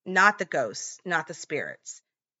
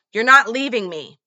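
higher, louder retold menacing yell; shouted threat; 5 semitones higher, 9 dB louder than usual. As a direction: snarl it loud like a crazed husband.

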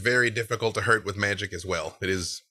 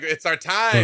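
eager loud announcing; 6 semitones higher, 6 dB louder than usual. Retold or imitated. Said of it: "They, they were like".

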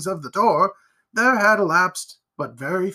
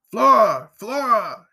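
higher, anxious calling; crying out; 5 semitones higher, 5 dB louder, slower than usual. A narrator's reading. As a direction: call her name through the door. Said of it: "he cried".

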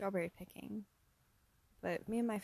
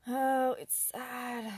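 sad; 4 semitones higher, 6 dB louder, much slower than usual. Real, not acted. Lamenting the state of things.

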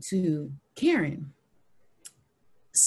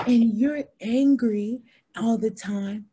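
mock accusation; 4 semitones higher, 4 dB louder, slower than usual. Retelling colleague's accusation.

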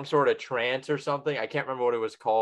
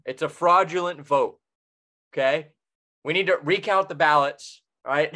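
mock outrage; 3 semitones higher, 4 dB louder than usual. Mock outrage over the Powerball.

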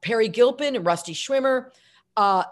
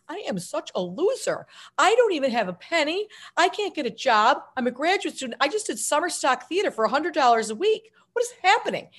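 high-pitched, incredulous rant at yourself; comic despair climbing higher; exasperated self-pity; 6 semitones higher than usual. Retold or imitated. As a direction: wail about your own failures, hammed up. Acting out exasperation at the TV.

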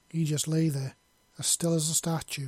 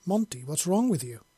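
a lightly voiced, puzzled plea; ask, honestly bewildered, slightly raised; confused question; 3 semitones higher, 3 dB louder than usual. Woman startled by his outburst, confused question. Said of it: "she asked with confusion".

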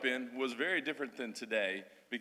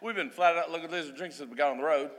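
put-on broad old Australian; 7 semitones higher than usual. Shown as a demonstration. Missionary demos childhood Australian slang for the church, broad Aussie accent. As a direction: lay on the outback Australian slang with gusto. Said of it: "I'm gonna speak the old, uh, old Australian".

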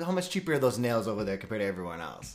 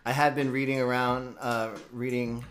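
stoned. Real, not acted. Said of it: "really baked right now".

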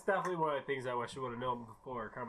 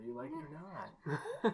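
teasing laugh; 8 semitones higher, 6 dB quieter, slower than usual. Real, not acted. Teasing husband about third kid.

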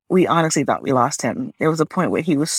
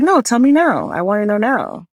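"No, tell me now" pitched higher and louder, insisting; urgent demand; 5 semitones higher, 4 dB louder than usual. Retold or imitated. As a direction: push him to tell you right now. Daughter demands bad news now.

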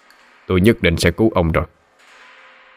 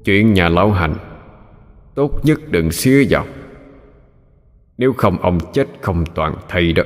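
menacing growl. Acted. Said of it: "Nó gằn giọng nói".

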